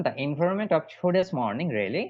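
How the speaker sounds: slow, deliberate reading; teacher modelling slowly; slow model sentence. Shown as a demonstration. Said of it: "এটা use করবেন".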